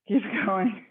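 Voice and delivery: laughing through the words; breaking into a laugh mid-cue. Real, not acted.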